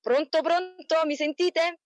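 voce più alta, lenta, insistente; chiamata al telefono. Real, not acted. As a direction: richiamo alto e lento al telefono. Collegamento telefonico che non risponde. (chiama al telefono chi non risponde, con voce alta e lenta)

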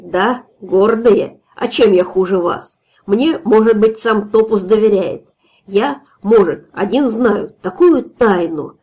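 slow, tipsy bragging; swaggering drunk host; drunk boasting. Acted.

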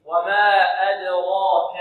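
slow, drawn-out "وما أدراك" in recitation; Quranic recitation. Shown as a demonstration. Teacher showing students the heavy ra, careful recitation. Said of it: "لابد أن نحترز من تفخيم الدال".

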